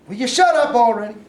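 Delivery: angry snap. Acted. Sergeant snaps at nagging private.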